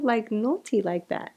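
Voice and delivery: naughty in a South African accent. Real, not acted. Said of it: "I'm still saying naughty with a South African accent".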